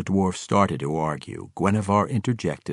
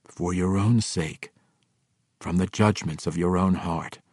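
calm. Acted. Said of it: "Drizzt calmly explained".

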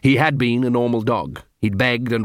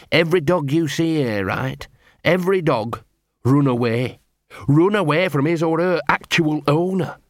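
lightly voiced dog, pitched up in places; earnest streetwise dog; 4 semitones higher than usual. Gaspode explains the guild.

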